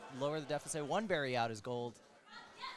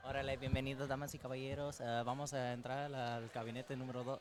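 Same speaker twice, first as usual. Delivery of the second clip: lucha libre announcer; faster than usual. Pretend. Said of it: "I'll stop with the Spanish".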